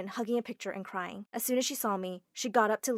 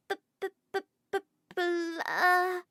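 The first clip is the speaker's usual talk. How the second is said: high, breaking stutter near tears; tearful stammer; 8 semitones higher than usual. Acted. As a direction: stumble over the word, almost crying. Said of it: "Susie's eyes were full of tears".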